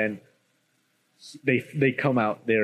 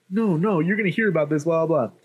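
lightly voiced spoiled kid, higher; a hint of a brat making threats; indignant brat; 5 semitones higher than usual. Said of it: "he's like, he's a brat".

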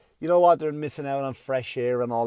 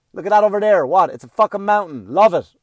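loud exasperated dad; yelling at kids; 3 semitones higher, 8 dB louder than usual. Retold or imitated. Dad yelling at kids to love mountain. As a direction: bark it at the bored kids. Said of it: "yell at them".

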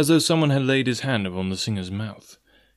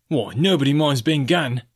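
scornful cry; 4 semitones higher, 3 dB louder than usual. Acted. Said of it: "cried Mary".

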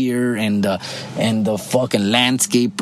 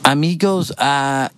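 halting, slightly higher imitation of pocho Spanish; 4 semitones higher than usual. Ranting viewer mimics miscast actors, mock pocho Spanish accent. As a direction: put on stilted American-sounding pocho Spanish, pausing between words. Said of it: "I can't even impersonate these guys".

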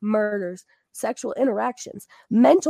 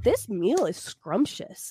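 imitating the classmate; slower than usual. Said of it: "Or he'd be like".

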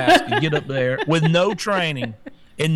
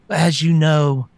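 mocking the press secretary. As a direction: parody a flustered spokeswoman fumbling with nonsense words. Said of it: "She's like".

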